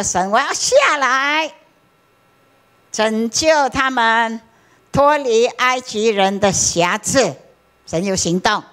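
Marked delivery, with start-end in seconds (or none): 0.0-7.3 voice of God. Retold or imitated. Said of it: "他说".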